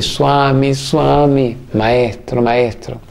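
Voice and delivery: mock shout of Swami, enthusiastic not rude; enthusiastic call. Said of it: "Le grité".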